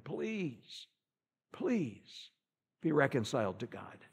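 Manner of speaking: hushed, earnest begging; soft pleading. Retold or imitated. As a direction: plead gently, almost whispering. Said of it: "Daniel is begging this man".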